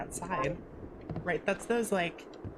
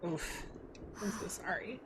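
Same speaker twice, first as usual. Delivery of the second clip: soft sympathetic whisper; 10 dB quieter than usual. Real, not acted. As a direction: whisper it, gently sorry. Quiet sympathy to game character.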